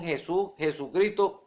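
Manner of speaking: "Jesús, Jesucristo" with Spanish h; Spanish mispronunciation. Shown as a demonstration. Preacher citing the error, "Jesús, Jesucristo" in Spanish sounds. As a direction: say "Jesús, Jesucristo" as heh-SOO, heh-soo-CREE-to. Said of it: "una mala pronunciación".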